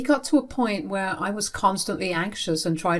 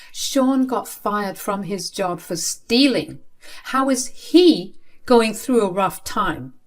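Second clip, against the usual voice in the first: slow, incredulous objection, raised a little; indignant protest; 3 semitones higher, slower than usual. Acted. Child arguing with father about Sean, indignant protest. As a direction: protest the unfairness, drawing it out.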